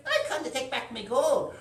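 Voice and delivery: high, loud-ish character voice; defiant heroine. Acted. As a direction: stand up to the dragon in a high voice. Heroine confronts the woken dragon.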